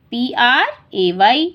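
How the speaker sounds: letters read slowly; slow spelling out. Shown as a demonstration. Teacher spelling a word under a picture. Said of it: "तो हम यहाँ लिख देंगे".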